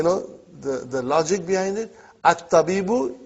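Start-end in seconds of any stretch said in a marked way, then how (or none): 2.2-3.2 "At-tabibu" opened on a clear a; sentence-initial hamza. Shown as a demonstration. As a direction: sound the first a of "At-tabibu". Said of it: "you started the sentence".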